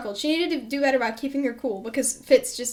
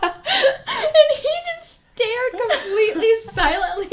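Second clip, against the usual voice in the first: words broken by real laughter; giggling helplessly mid-story; laughing; 10 semitones higher, 4 dB louder, slower than usual. Real, not acted. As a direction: laugh through the telling. Laughing while retelling dad.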